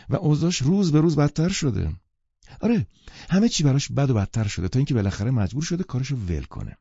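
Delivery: lightly voiced Miss Baker. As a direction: tell it with mock gravity. (صدای کمی زیر و بلند دوشیزه بیکر)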